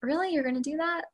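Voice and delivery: high doubtful "really?"; skeptical tone. Retold or imitated. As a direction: sound unconvinced and a bit dismissive. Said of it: "her tone was kinda like".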